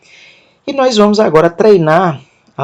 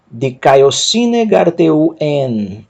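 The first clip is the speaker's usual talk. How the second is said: slow reading; slower than usual. Shown as a demonstration. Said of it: "Vou ler o texto".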